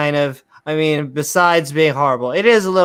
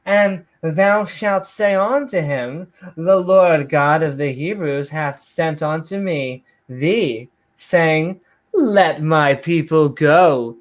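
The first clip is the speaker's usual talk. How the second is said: theatrical Bible reading; mock-biblical reading. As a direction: declaim it like hammed-up scripture. Mock King James reading.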